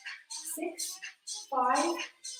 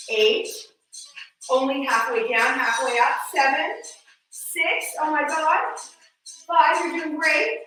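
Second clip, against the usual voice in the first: excited coaching; 6 semitones higher, 5 dB louder than usual. Real, not acted. Pushing class through hard count.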